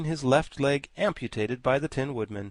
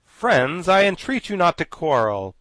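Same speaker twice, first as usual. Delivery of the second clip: anxious plea; 6 semitones higher, 9 dB louder than usual. A narrator's reading. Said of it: "pleaded the Tin Woodman anxiously".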